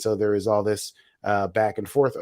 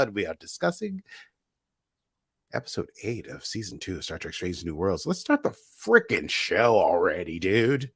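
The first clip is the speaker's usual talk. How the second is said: lightly voiced aggressive bro; a hint of an impatient bro; 2 semitones lower than usual. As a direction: drop into a pushy dude who wants to get going. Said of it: "my aggressive bro voice".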